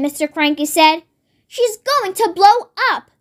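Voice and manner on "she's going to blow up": higher, anxious, slightly raised; mild wail. Acted. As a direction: fret in alarm. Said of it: "Missus Cranky wailed".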